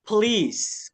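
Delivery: "Please" stretched as puh-LEES, police; PO read as PE. Shown as a demonstration. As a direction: slowly model "Please" with a short puh first. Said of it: "tapi dibaca pe". ("Please" dibaca pe-lis, bukan po-lis)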